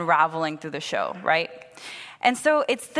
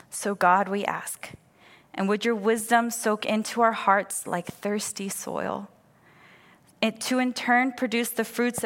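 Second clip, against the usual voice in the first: measured, unhurried prayer; spoken prayer. Real, not acted. Pastor leading a church in asking God for wisdom, prayerful. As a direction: pray gently, leaving pauses between phrases.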